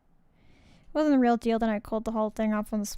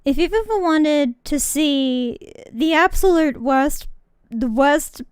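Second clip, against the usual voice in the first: loud mock lecture; 7 dB louder than usual. Real, not acted. Mock warning to viewers, loud.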